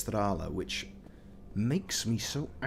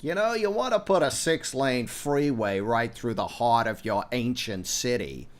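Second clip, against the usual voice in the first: mocking Americans; 4 dB louder than usual. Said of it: "they're like".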